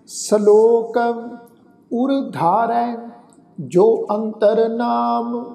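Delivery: slow, measured Gurbani reading with long pauses; slow scripture recitation. Acted. Reciting the shalok to the sangat, slow and devout. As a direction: recite each phrase slowly and devoutly.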